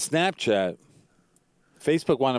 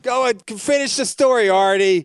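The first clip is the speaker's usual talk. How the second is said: calling out to Artie; 8 semitones higher, 5 dB louder than usual. Real, not acted. Urging Artie to finish story.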